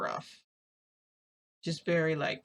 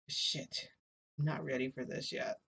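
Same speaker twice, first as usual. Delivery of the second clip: whispered panic; 6 dB quieter than usual. Retold or imitated. Panicked inner thought, frozen.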